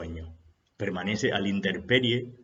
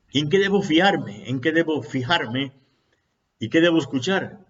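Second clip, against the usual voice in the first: anxious disciple pleading; 7 semitones higher, 6 dB louder than usual. Acted. Disciple pressing the master.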